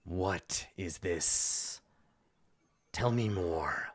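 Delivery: slow, probing villain; imperious villain. Acted. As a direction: draw out the question, demanding answers. Game master voices the NPC.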